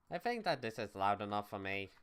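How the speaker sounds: doubtful "I think" given weight; stress on I think. Shown as a demonstration. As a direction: lean on "I think" to hedge. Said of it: "Emphasis on the word "I think".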